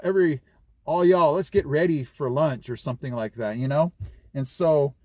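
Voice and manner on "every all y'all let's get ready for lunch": raised, louder teacher call; calling to students. Retold or imitated. Teacher gathering students for lunch, lightly called out. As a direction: round up the class, pitched up at first.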